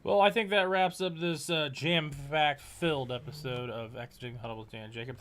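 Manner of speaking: stiff, mechanical outro read; robot voice. Real, not acted. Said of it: "you sound like a robot".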